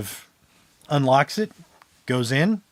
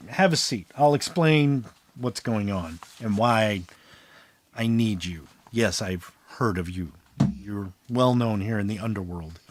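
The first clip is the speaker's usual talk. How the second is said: demon host; 5 semitones lower, 5 dB quieter than usual. Acted. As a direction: play the smooth demon inviting them to sit. Game master plays the demon Morgannon.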